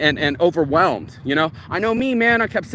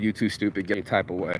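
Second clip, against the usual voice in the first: frustrated grandma; 6 semitones lower, 6 dB quieter, faster than usual. Retold or imitated. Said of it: "my grandma, frustrated".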